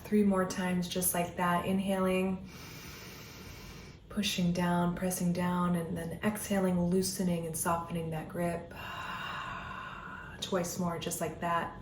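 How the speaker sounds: soothing breath-by-breath guidance; guided meditation. Acted. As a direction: ease the listener into stillness, one breath at a time.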